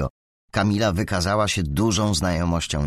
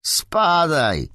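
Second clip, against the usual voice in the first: raised-pitch, mildly shouted brush-off; 8 semitones higher, 4 dB louder than usual. A narrator's reading. Alex shoves Michał away, mild angry shout. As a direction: call out to get lost, not full force. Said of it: "krzyknął Alex".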